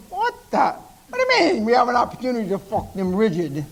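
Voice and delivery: lawyers' disbelief, lightly hammed up; baffled American lawyers. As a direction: play the baffled lawyers, mock shocked.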